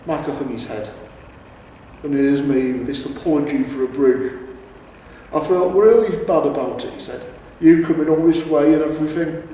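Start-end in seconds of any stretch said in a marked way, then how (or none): 2.0-9.4 louder, rueful troll; a troll sorry about his bridge; lightly voiced troll; apologetic troll.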